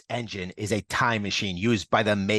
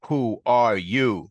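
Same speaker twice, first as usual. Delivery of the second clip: slow, loud, higher menace; menacing demand; 4 semitones higher, 4 dB louder, slower than usual. A narrator's reading. The Maker asks the transformed Reed, slow menacing demand. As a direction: drag it out like a final threat. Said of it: "as the Maker asks".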